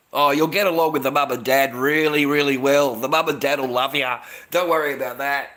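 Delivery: hammed-up reassurance to sign the paperwork; mock coaxing in-laws. Mocking the wife's family coaxing him to sign, loud and laughing.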